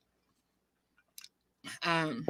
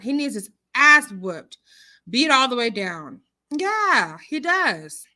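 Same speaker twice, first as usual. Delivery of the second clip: emphatic, raised pitch by the end; talking loud; 2 semitones higher, 4 dB louder, slower than usual. Real, not acted. Host demanding he be punished, talking loud. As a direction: get loud and insistent about it. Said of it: "I'm talking so loud".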